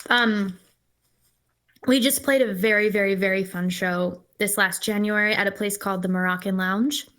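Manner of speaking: talking with mouth full. Real, not acted. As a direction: speak around a bite of food. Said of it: "I'm gonna sort of talk with my mouth full".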